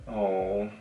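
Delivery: ordinary talk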